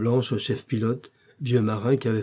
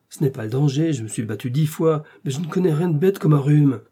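building to higher, louder indignation; exasperated protest; 4 semitones higher, 4 dB louder than usual. Acted. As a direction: defend yourself with rising exasperation. Exasperated excuse in an argument.

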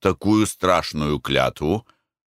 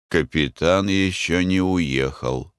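ordinary delivery, nothing marked

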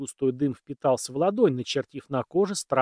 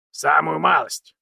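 dry; 3 semitones higher, 7 dB louder, slower than usual. A narrator's reading. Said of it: "сухо ответил Александр".

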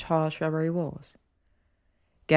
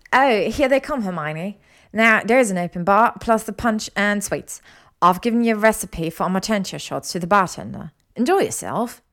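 higher, louder, lively woman's voice; bubbly hostess Ginny; 3 semitones higher, 5 dB louder than usual. Acted. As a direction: welcome the guests as an eager hostess.

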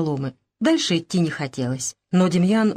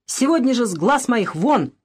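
крикнула; 5 semitones higher than usual. Acted. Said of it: "крикнула".

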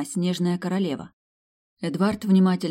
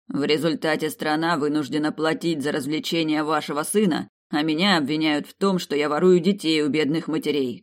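angry emperor; 4 dB louder than usual. Acted. Emperor berates ministers.

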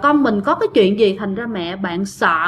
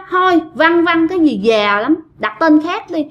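higher-pitched voice of a fussy ghost, imitated; mock complaint; 5 semitones higher than usual. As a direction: object in a raised, put-on pitch. Ghost rejects the offered name.

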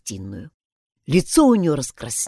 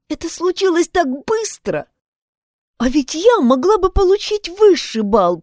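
высокий девичий голос с досадой на себя; сокрушается о своей глупости, голос выше обычного; girl regretful; 10 semitones higher than usual. Acted. Isabel voiced, regretful. (Изабель корит себя за глупость, высоким девичьим голосом)

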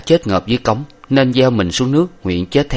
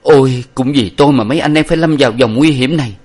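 louder anguished cry; grieving hero blaming himself; mild anguish, beating his chest; anguished lament; 5 semitones higher, 5 dB louder than usual. A narrator's reading. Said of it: "dậm cẳng, đấm ngực mà rằng".

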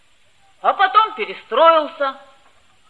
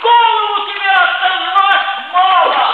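raised, higher angry reproach; angry scolding; 5 semitones higher, 4 dB louder than usual. Acted. Friend scolds Lenka for his silence, angrily.

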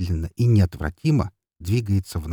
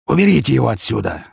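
raised, louder command in a boss's voice; barked order; 4 semitones higher, 5 dB louder than usual. A narrator's reading. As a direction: order your men to clear him out. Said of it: "приказал Гаврилович своим людям".

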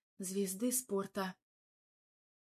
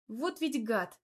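grumbled; 3 semitones higher, slower than usual. Acted. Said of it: "буркнула я".

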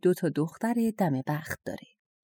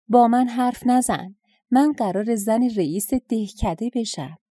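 louder, higher, scornful rebuke; haughty anger; 4 semitones higher, 4 dB louder than usual. Acted. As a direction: put the frog in its place. Girl kicks frog, snaps at it. (با خشم و تکبر)

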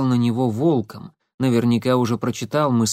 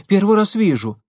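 nervous denial; 9 semitones higher, 5 dB louder than usual. Acted. Frightened boy denying.

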